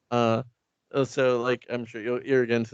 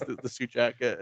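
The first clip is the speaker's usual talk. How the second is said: ordinary talk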